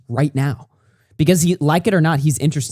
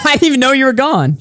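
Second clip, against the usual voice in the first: laughing; 12 semitones higher, 5 dB louder than usual. Real, not acted. Repeats it, laughing.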